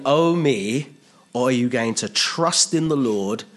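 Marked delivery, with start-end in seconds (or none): 0.1-0.9 high, drawn-out mock lament; self-pitying wallow. Preacher mocking those who wallow in troubles, self-pitying. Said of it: "Wallow in".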